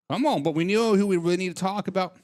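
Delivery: ordinary talk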